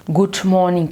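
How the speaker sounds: "good morning" in a light American accent. Shown as a demonstration. Coach mocking learners, lightly American "good morning". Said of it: "comme un Américain".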